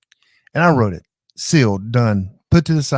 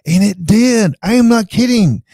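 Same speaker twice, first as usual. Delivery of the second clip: much higher and louder, bursting with amazement; excited disbelief; 8 semitones higher, 6 dB louder than usual. Real, not acted. Telling the chat the AI really did it, excited. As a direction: insist it's true, thrilled. Amazed at AI's redneck rewrite.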